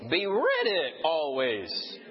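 "Be ready always" very slow with ready drawn out; emphasis on ready, very slowly; stress on READY. Shown as a demonstration. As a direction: draw out the word ready. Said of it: "when you emphasize each word".

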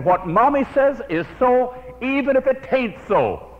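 put-on little girl defending Mommy to her friend, high and indignant; indignant child. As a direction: squeak it out like a stubborn little girl. Little girl quarrel, final retort.

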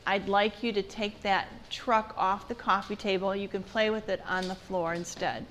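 calm, even parent's request. Shown as a demonstration. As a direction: ask gently and steadily, no edge. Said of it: "you say in a calm voice".

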